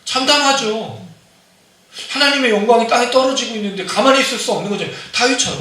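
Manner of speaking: preacher at full force; fervent preaching. Acted. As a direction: rouse the congregation, voice climbing high. Preacher holds the fervent peak.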